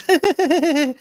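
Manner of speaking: a high, odd little giggle imitating her; imitating a spaced-out high giggle; weird giggle. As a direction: mimic her strange laugh. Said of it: "she was acting all weird".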